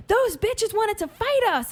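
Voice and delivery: a lightly hammed-up tipsy mother; mock drunk mom. Drunk mom reporting the other women.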